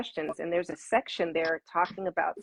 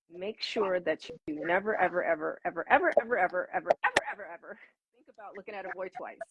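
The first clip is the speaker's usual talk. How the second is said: hammed-up stern elder, higher and rising on the repeated evers; mock strict warning; 3 semitones higher, faster than usual. Elders lecturing young girls about boys, mock stern warning. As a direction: wag a finger, stretching out the endless evers with a half laugh.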